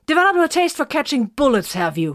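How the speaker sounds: seething, accusing outburst; furious demand. A narrator's reading. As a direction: lay into him for taking the bullet. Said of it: "Vox demanded".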